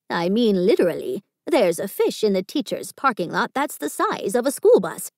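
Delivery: a seasoned lunch lady warding her off; gruff janitor. Acted. Gertie turning Margot away from her garbage can, gruff.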